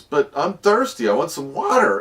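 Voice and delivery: lightly voiced whiny child; a hint of a pleading little kid. Kid pleading with Dad for water, a light child voice. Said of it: "the little kid says".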